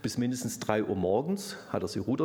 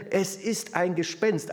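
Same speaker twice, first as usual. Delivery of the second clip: mock fright; 6 semitones higher, slower than usual. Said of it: "dann schreien sie".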